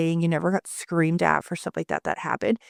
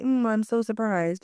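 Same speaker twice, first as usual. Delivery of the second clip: slow, drawn-out sarcasm; mock surprise; 3 semitones higher than usual. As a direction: feign surprise at the obvious. Mock reaction to predicted spill.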